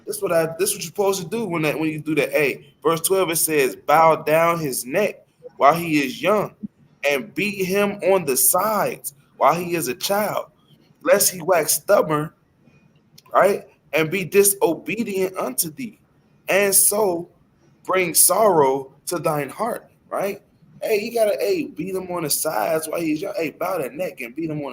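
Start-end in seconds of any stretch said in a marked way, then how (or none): 3.8-12.3 scripture reading. Acted. Reads scripture aloud. 13.9-19.9 slow, solemn Bible reading; scripture reading. Acted. Reads scripture aloud.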